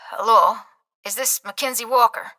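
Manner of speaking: put-on gentle Irish accent, soft on the phone; a light, lilting Irish accent. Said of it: "a familiar, soft Irish lilt to it".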